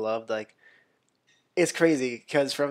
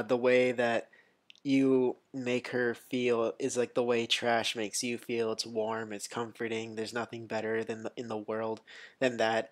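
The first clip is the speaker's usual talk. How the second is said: quoting Woody. Retold or imitated. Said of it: "he's just like".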